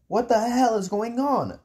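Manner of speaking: high-pitched, indignant shout; angry shout. Acted. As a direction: raise the pitch and demand answers, understated in volume. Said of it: "I shouted".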